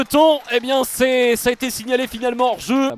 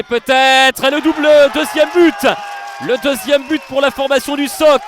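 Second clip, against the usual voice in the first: excited sports commentary; 3 dB louder than usual. Real, not acted. Second goal call.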